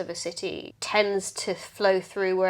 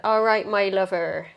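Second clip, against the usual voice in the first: put-on West Country accent. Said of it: "Kinda sound like a pirate".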